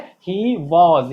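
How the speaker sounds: "was" with a rounded "aw" vowel; correct "was". Shown as a demonstration. Teacher giving another example, "was" as "vawz". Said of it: "हम लोग क्या बोलेंगे".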